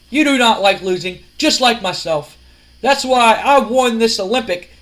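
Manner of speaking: lightly acted smug wrestler speech; Kurt Angle. Wrestler answers his rival on the mic, smugly. Kurt's smug promo reply.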